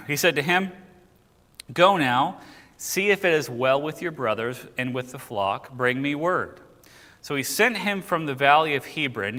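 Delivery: clear, projected verse narration; scripture reading. Acted. Teacher reading of Joseph sent to find his brothers, scripture reading. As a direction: read the Bible story out to the room.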